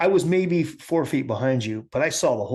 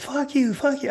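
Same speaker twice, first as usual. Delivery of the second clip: retold yelling; 11 semitones higher than usual. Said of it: "I just was like".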